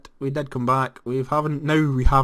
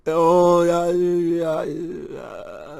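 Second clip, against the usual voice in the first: high, loud gleeful yeahs fading out; thrilled at the fightback, gleeful; excited; 5 semitones higher, 4 dB louder, much slower than usual. Real, not acted. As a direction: gush with real excitement. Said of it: "I'm all excited".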